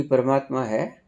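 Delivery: quick, impatient questioning, acted out; mock haste, words hurried along; hurried seeker. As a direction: imitate someone asking on the run. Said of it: "आप भागते भागते पूछते हो".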